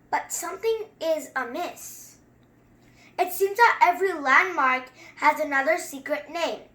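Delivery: measured, rhythmic read-aloud; a kid reading a picture book to viewers; storybook reading. Acted. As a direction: read it like a bedtime rhyme. Reads the book text.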